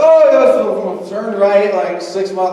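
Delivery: put-on loud, slow, slurred drunken directions; mock slurred drunk. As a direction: slur it like a tipsy passenger. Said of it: "like, overslurred speech".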